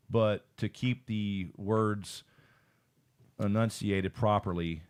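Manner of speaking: slow, measured, properly formed words; slow down and keep every word enunciated; careful enunciation. Shown as a demonstration. Explaining the effort of speaking properly, careful slow enunciation. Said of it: "I feel like I'm changing my voice, too".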